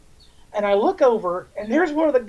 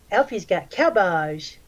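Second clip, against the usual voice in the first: creepy guy voice; slower than usual. Retold or imitated. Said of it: "this is the voice he used".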